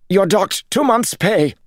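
high, loud angry snap; trembling snap. A narrator's reading. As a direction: bark the punishment, voice shaking. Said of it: "Jared snapped, but his voice trembled".

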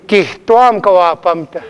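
"Kihtuam" with the H clearly breathed out before the t; sounded H. Shown as a demonstration. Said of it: "That H".

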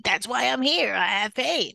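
emphatic, swooping annoyed retort; mock exasperation. Patient silently answering the nurse, mock exasperated. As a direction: answer as if it's obvious, mildly hammed-up.

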